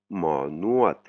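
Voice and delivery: Nuat said with a falling tone; Thai tones demo. Shown as a demonstration. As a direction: drop the voice on Nuat. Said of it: "on voit cette intonation cassée". (Nuat prononcé avec un ton descendant)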